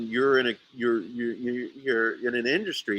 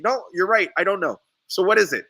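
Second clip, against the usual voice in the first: higher, louder, breaking into a laugh; mock concession; 7 semitones higher, 6 dB louder, faster than usual. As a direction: concede in jest to burn the other guy.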